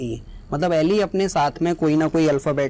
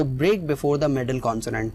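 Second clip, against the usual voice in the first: slow dictation; much slower than usual. Shown as a demonstration. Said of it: "definition हमें बताती है".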